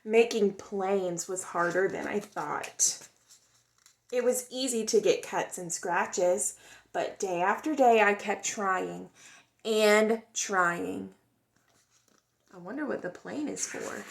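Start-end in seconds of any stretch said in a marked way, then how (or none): 0.0-11.1 expressive storybook read-aloud; gentle, lively storytime voice; reading to children. A narrator's reading. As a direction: tell it like a picture book for kids. Reads picture book aloud.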